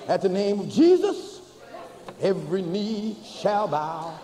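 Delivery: slow, measured sermon recitation; preacher reciting verses to the flock, slow; intoned scripture. Acted. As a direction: lay each phrase down slowly like a hymn.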